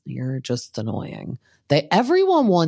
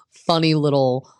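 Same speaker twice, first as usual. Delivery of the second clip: whisper; 2 semitones higher, 4 dB louder than usual. Retold or imitated. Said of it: "I'm like".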